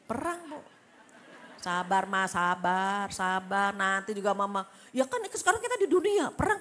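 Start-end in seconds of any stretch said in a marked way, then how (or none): 1.6-4.7 loud, clipped mock scolding; impatient husband. Husband telling wife to be patient, loud mock gruff. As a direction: bark it like a fed-up husband. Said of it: "Coba kalau suami yang ngomong".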